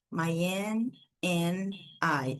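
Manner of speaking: "My Anne and I" said very slowly as "maj en en aj", no D in and; linked pronunciation. Shown as a demonstration. Teacher modelling connected speech for students, very slow. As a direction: blend "Anne and I" into one flow, dropping the D. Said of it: "aqui eu já não falo também o som do D".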